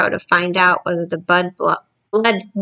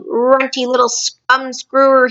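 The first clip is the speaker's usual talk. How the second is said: slower, higher hammed-up insult; mock angry shout; 5 semitones higher than usual. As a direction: spit the insult out like a bully giant. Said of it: "he shouted".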